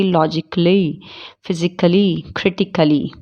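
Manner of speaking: लॉजिकली, फिजिकली, क्रिटिकली ending in -klee; लॉजिकली, फिजिकली, क्रिटिकली with the a swallowed; silent A. Shown as a demonstration. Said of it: "उसमें ए silent होता है".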